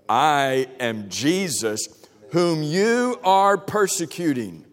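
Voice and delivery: slow, weighty reveal; a lightly voiced Jesus, slow and solemn. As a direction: deliver it slowly, as a grave declaration. Jesus answers Saul.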